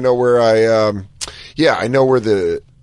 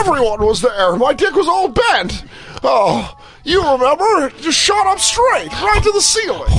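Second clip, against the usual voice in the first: much higher shouted Jimmy Stewart that comes out like Don Knotts; overjoyed shouting old-movie hero, pitched way up; Jimmy Stewart impression. Host hamming up It's a Wonderful Life for the caller, shouting Jimmy Stewart. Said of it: "my Jimmy Stewart sounds like, um, wh-, who's the deputy? ... Don Knotts".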